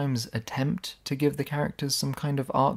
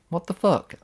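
exasperated; 7 semitones higher, 4 dB louder than usual. Real, not acted. Exasperated outburst at plot.

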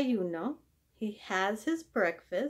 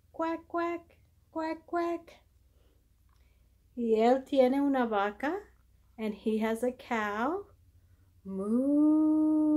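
put-on reading to a toddler.

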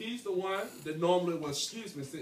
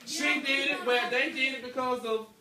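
mock blaming kid; 4 semitones higher than usual. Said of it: "what do you do?".

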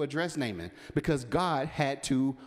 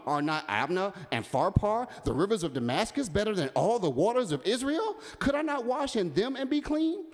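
1 indignant Naaman; 5 semitones higher than usual. Acted. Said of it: "So he walked off".

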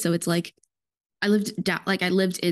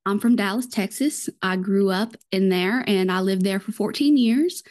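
Dallas-style Southern accent, easy and unforced. Shown as a demonstration. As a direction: show off a gentle Southern accent. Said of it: "I do love my Southern accents".

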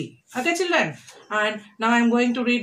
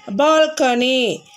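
slow dictation; slower than usual. Shown as a demonstration. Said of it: "pronounce after me".

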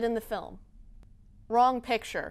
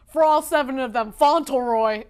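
louder, firm emphatic repeat; 9 dB louder than usual. Acted. Author insisting to fans on one middle name, emphatic. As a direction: land the joke hard.

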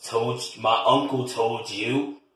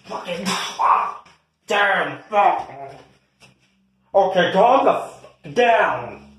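mock shout; 6 semitones higher, 3 dB louder, much slower than usual. Shouting during family quarrel.

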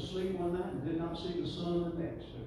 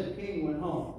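leading a call. Real, not acted. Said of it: "Everybody say".

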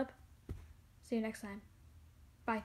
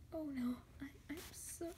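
tearful whisper; 5 semitones higher, faster than usual. Acted. Character apologizing upset.

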